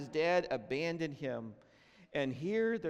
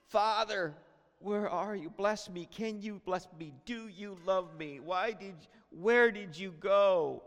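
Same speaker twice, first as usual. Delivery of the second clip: put-on higher, pleading child's voice, begging Father to come home; pleading abandoned child; 4 semitones higher than usual. Abandoned child pleads with absent father, higher pleading cry. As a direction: beg like a child whose father left.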